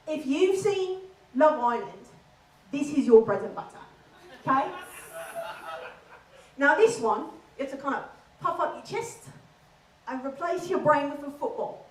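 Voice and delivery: puffed-up, dim Essex lad accent. Shown as a demonstration. Comic teaching the crowd Love Island talk, in an Essex accent. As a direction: Essex accent, as if personally affronted. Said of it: "we have Essex".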